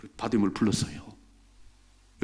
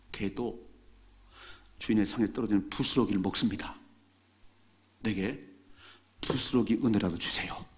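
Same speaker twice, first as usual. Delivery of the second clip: humble plea; 4 semitones lower than usual. Acted. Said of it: "이렇게 말해요".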